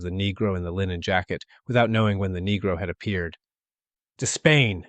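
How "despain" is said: breathless cry. A narrator's reading. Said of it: "he cried, panted".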